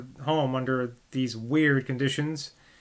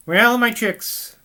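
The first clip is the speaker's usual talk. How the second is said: slow hearty father; 7 semitones higher, 5 dB louder, much slower than usual. Acted. Mayor Garrett addresses daughters.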